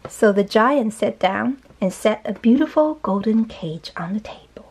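slow, measured storybook reading; story narration. A narrator's reading. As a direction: read slowly to a young child. Reads the story aloud.

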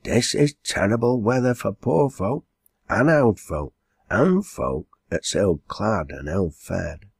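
a hint of a lamenting country landlady; lightly voiced landlady, lamenting. Landlady pitying poor old folk, mildly lamenting.

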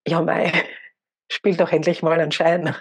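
God's punchline voiced through a laugh. God finally answers the praying man, laughing. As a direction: chuckle while voicing God's reply. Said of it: "er sagt zu ihm".

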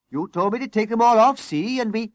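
high, flustered excuse; aggrieved, high-pitched objection; indignant protest. A narrator's reading. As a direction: argue back until cut off. Fireman protesting to frantic boss.

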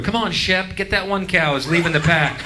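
high-pitched call to the sheepdog; herder calling out. Acted. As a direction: call the dog after a stray.

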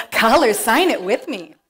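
put-on slow, sing-song kids' TV teaching; lightly voiced TV host teaching toddlers; Signing Time host voice. Shown as a demonstration. Kids' TV host teaches a sign, slow and sing-song. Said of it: "I do a pretty good Rachel Coleman".

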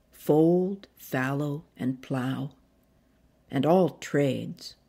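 slow, deliberate poetry reading; poem recital. Acted. Poet reading her chosen poem aloud, unhurried. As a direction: savour each sound of the poem.

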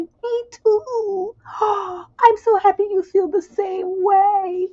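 high, slow, teary mock gush; overjoyed, almost crying; gushing boyfriend. Boyfriend confessing love in a high teary gush. Voicing the man's reply.

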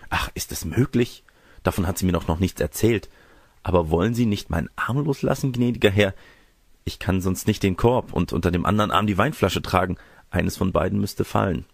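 lightly voiced girl, polite protest; a hint of a modest, pleading girl; demure young girl. Girl asks gentleman to release her arm, mildly pleading.

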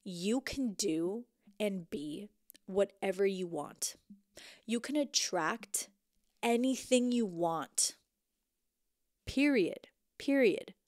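slow, firm self-affirmation, ending punched; mirror affirmation. Shown as a demonstration. Looking in the mirror telling herself she can, slow and firm. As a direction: affirm yourself slowly into the mirror. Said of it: "I'm gonna say".

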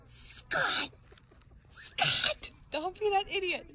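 high anxious calls; calling from far away. Real, not acted. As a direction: call to him across the distance. Calling friend near bear.

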